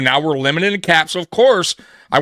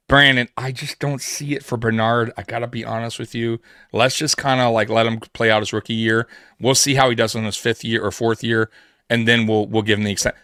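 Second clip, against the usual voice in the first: lower, easygoing, confiding tone; calm heart-to-heart; 5 semitones lower than usual. Retold or imitated. Head coach calmly telling his GM to wait on Bernard, low and easy. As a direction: let the GM down gently, lower and unhurried.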